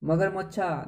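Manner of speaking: मगरमच्छा said with a joking lilt; mocking wrong answer. Shown as a demonstration. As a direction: tease मगरमच्छा as absurd. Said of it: "देखा क्या कभी मगरमच्छा?". (मज़ाक उड़ाते हुए)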